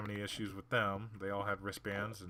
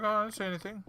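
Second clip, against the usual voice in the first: high, louder mock of a kid backing down; mock innocent denial; 12 semitones higher, 5 dB louder, much faster than usual. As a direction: play the innocent coward. Mimicking kid's denial.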